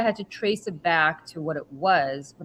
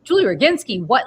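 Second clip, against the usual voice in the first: higher, louder startled reading of her own name; shocked double take; 6 semitones higher, 7 dB louder than usual. Retold or imitated. Reading Putin's list, finding her own name, shocked. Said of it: "I'm like".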